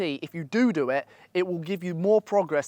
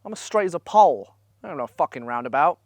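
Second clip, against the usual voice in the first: enraged. Retold or imitated. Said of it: "I'll now feel enraged".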